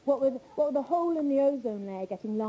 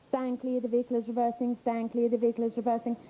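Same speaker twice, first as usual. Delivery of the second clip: even, monotone reversing-van announcement; talking van. Retold or imitated. Van warning people as it reverses, monotone automated announcement. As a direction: repeat it mechanically on one level pitch. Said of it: "I heard this van actually say".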